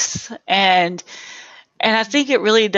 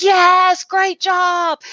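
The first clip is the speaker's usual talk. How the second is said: higher, cheerful praise; mock enthusiastic praise; 9 semitones higher, 3 dB louder, much slower than usual. Audience members praising the guest speaker, mock enthusiastic. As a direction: gush a little.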